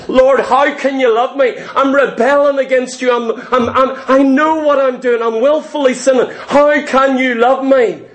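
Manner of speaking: high, insistent cry to God; retold tearful plea. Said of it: "crying, saying".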